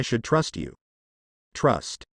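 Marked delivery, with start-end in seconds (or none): 1.5-2.0 low scornful scoff. A narrator's reading. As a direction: spit the word out in contempt. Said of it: "Azula scoffed".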